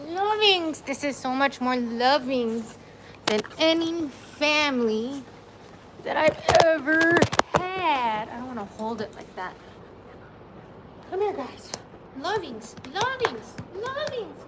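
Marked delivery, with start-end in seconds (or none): 0.1-8.3 high, sing-song pet voice. Real, not acted. Cooing at her dogs. 11.1-14.4 cooing pet talk. Real, not acted. Calling dogs softly.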